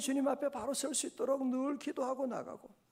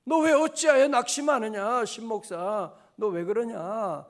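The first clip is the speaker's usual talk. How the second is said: building self-rebuke, ending loud; talking to himself; 3 semitones higher, 5 dB louder than usual. Retold or imitated. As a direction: chide yourself, rising to a shout. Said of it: "자신에게 얘기하고 있는 거예요".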